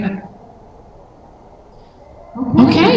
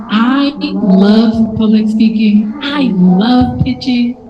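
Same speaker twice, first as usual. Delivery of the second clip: slow self-talk; much slower than usual. Shown as a demonstration. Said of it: "just say".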